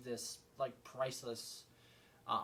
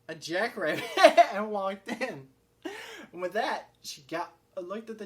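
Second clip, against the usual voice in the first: high, loud burst of laughter mid-sentence; cracking up; 6 semitones higher, 10 dB louder than usual. Real, not acted. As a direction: barely get it out for laughing. Cracks up at absurd plot turn.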